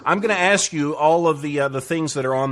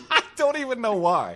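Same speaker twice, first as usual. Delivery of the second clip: high, giggly laughing voice; 10 semitones higher, 3 dB quieter than usual. Real, not acted. Host admitting to guest what excites him, laughing. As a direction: laugh through the words, pitched way up.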